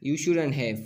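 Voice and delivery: "You shouldn't have" with a rising tune; rising intonation. Shown as a demonstration. Teacher demonstrating intonation patterns, rising tune on "You shouldn't have". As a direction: lift the pitch at the end of "You shouldn't have".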